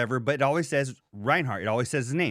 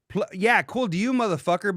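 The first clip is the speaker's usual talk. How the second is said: sarcastic rant; 6 semitones higher than usual. Real, not acted. Ranting at the absent friend.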